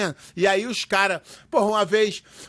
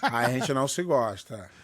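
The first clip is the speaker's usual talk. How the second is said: laughing; 8 semitones lower, 5 dB quieter, slower than usual. Real, not acted. Joking about rivalry.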